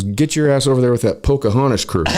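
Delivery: acted-out foreman telling someone off; irritated boss order. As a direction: send him off with disdain. Boss ordering new hand away.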